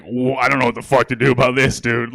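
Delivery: a hint of a baffled young cop; lightly voiced confused cop; clueless cop. Comic imitates rookie cops unsure what to do, lightly baffled. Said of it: "they're looking like".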